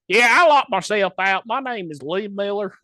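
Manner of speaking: better character voice. Acted. Caller locked out, telling the help desk his name, in a put-on voice. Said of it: "let me get into better character".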